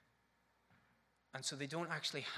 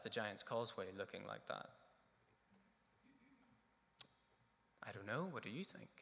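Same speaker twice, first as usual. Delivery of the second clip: musing question. Shown as a demonstration. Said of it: "Ask the questions".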